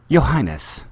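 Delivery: hesitant, timid opening; nervous. A narrator's reading. C three P O nervously addresses the princess. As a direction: venture it nervously, unsure of welcome. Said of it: "ventured nervously".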